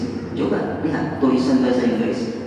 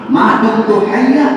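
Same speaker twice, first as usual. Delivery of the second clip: slow, raised Arabic quotation; solemn slow recitation of the Arabic words; quoting Ali in Arabic; 8 semitones higher, 6 dB louder, much slower than usual. Retold or imitated. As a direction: intone the saying slowly. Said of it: "kata Sayyidina Ali".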